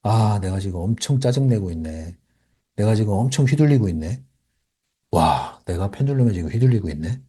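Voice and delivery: notice your own irritation, slightly subdued; annoyed self-realization. Shown as a demonstration. Coach modelling catching oneself mid-annoyance, low irritated self-talk. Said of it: "짜증 내면서, 내면서 깨달으셔야 돼요".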